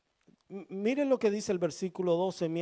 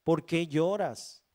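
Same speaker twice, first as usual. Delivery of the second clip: tender plea; 3 semitones higher, 4 dB louder than usual. Acted. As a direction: ask gently, drawing each question out. Husband pleading with weeping wife.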